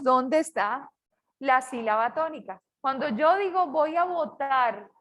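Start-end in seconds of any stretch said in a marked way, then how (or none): 4.0-4.9 votar with its last syllable drawn out; stressed syllable demo. Shown as a demonstration. Teacher showing students where the stressed syllable falls, stress demo. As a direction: lean on the final syllable of votar. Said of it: "darle inflexiones a la voz".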